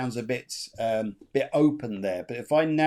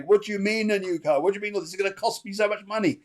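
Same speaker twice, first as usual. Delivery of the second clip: mock disbelief; 6 semitones higher, faster than usual. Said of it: "He's, like, laughing his head off".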